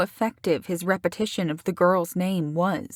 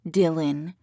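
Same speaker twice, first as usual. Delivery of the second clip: mocking his tone. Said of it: "She copied the way he said her name".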